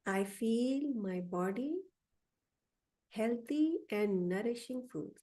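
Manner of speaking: slowed, drawn-out affirmation. Shown as a demonstration. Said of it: "Okay, I'll go a little slower".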